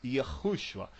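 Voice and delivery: YAHUSHUA as yuh-KHOO-shua; American reading. Shown as a demonstration. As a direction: say Yahushua with closed 'â' and rasped H. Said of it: "um A com um circunflexo".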